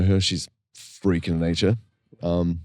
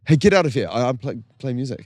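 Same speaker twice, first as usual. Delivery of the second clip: mock bouncer; 5 semitones higher, faster than usual. Acted bouncer and musician exchange.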